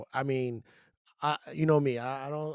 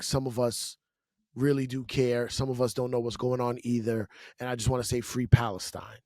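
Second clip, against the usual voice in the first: lower, earnest sign-off; re-enacted sincere speech; 5 semitones lower than usual. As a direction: thank the host and address the crowd sincerely. Re-enacts closing speech to audience.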